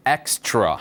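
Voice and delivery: "extra" in English, with a joined tr and falling end; English pronunciation. Shown as a demonstration. Teacher repeats it for learners to follow, careful English "extra". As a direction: model "extra" carefully as two English syllables. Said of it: "발음 따라해 보세요".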